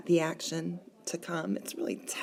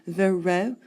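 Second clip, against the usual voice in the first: "Vero" as two beats, cut short of the full name; syllable-pair scansion; 3 dB louder than usual. Shown as a demonstration. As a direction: sound out "Vero" as one foot. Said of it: "are two syllables".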